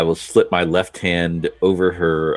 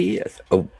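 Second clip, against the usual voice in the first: shocked. Acted. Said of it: "I sound shocked".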